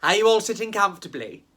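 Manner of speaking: quick, cheery storyteller question; brisk bedtime-story host; storyteller opening. Acted. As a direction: rattle off the old storytime opener. Classic storyteller opening to audience.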